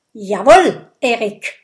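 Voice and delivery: loud, eager yes-sir; joyful call. A narrator's reading. Viking obeys his chief, calling joyfully. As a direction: answer the chief gladly and loudly. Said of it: "ruft Gudrud freudig".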